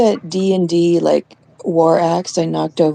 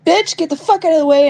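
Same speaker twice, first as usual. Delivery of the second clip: higher, fast mock yell; hammed-up order to a spider; 9 semitones higher, 3 dB louder, faster than usual. Telling her friend how she yelled at the spider. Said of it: "And I said".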